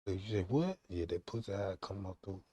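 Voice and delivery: low, hushed phone-call murmur; retold whisper. Man sneaking a call while his partner sleeps, retold whisper. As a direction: keep it down, imitating a furtive reply. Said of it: "Whisper like".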